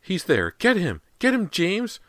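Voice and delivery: loud, high shrieked orders; frantic insisting. A narrator's reading. Mother urges father toward their son, frantic shrieking. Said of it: "this Fraser insisted".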